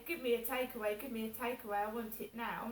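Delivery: mock-demanding an order from mum. Shown as a demonstration. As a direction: bark it out like a spoilt child. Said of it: "I didn't say".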